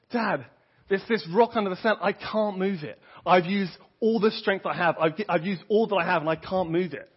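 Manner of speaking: put-on the frustrated child telling Dad he tried everything; a hint of a distressed five-year-old; upset little boy. Son answers father in story.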